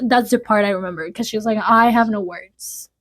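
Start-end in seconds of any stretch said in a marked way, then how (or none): 1.6-2.9 slow, drawn-out quoted reply; pointed retelling. Retold or imitated. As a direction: stretch each word for effect. Re-enacting Belinda's terse answer.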